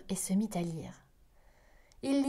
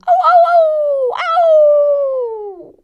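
long high howling aou, loud and full; loud, high wolf howl that rings out; 18 dB louder, much slower than usual. Acted. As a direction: howl at the moon like a hungry wolf. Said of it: "avec un hurlement".

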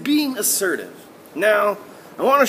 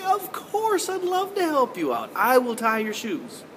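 cheerful willing; 2 semitones higher, slower than usual. Shown as a demonstration. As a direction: answer gladly, as a happy helper. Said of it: "if you asked me that way, I would say".

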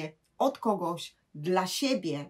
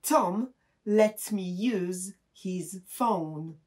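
slow model sentence; much slower than usual. Shown as a demonstration. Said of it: "to mogę powiedzieć".

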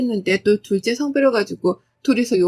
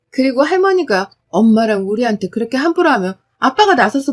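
louder, pointed complaint; bold daughter; 4 dB louder than usual. Acted. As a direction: confront dad sharply. Daughter confronts father.

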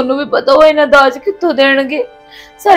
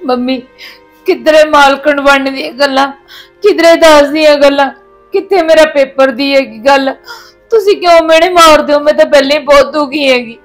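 tearful pleading. Acted. Daughter-in-law pleads with her mother-in-law, near tears. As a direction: voice near tears as she protests the taunts.

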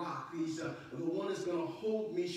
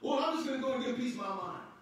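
mock hothead; 4 semitones higher, faster than usual. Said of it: "you don't find him saying".

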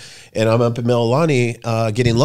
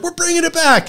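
much higher, punchy and triumphant; big announcement. Retold or imitated. Friend announcing the show's return, high and triumphant. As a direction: announce it like a trailer hook.

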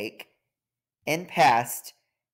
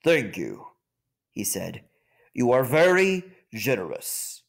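kindly lion king. Acted. Lion king thanks ant.

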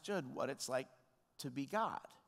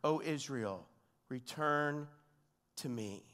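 God's appeal; slower than usual. Acted. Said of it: "then God says".

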